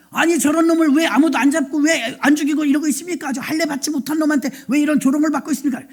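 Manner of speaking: quick, mildly heated protest; acted indignation. David protesting to soldiers about the taunts, mildly indignant. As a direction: rattle it off in mock outrage. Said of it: "막 분이 난 거예요".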